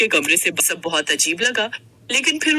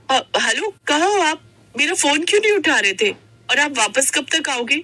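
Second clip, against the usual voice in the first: anxious; 5 semitones higher than usual. Acted. Wife anxiously calling absent husband.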